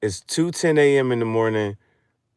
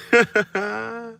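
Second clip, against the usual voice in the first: much higher triumphant squeak; mock woman's voice; 12 semitones higher, 3 dB louder than usual. She tells how she got him, high squeak. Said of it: "she was like".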